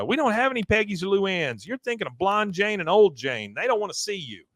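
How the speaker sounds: put-on high, prim voice of a cult girl through the gate; a high-pitched, dismissive girl turning him away. Cult girl turning Hank away, high and dismissive.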